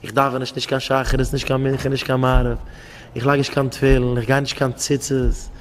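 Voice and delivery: a broken man begging God in a low, soft voice; pleading poor man. Retold or imitated. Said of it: "Stell dich vor".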